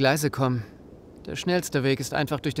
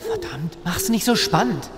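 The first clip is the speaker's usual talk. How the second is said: high, irritated, then slow and pointed; exasperated outburst; 7 semitones higher, slower than usual. Acted. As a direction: snap at her to stop stalling. Frustrated at suspense.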